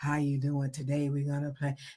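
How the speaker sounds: smooth, really deep, very low voice. Retelling how a radio voice sounded: imitating a smooth, deep voice. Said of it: "this smooth, real deep".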